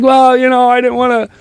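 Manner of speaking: lightly voiced wife, high and hesitant; wife's hesitant excuse. Husband voicing his wife's excuse, lightly imitated and high.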